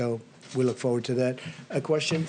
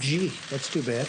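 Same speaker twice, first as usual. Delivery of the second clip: sarcastic. Real, not acted. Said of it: "detect sarcasm there".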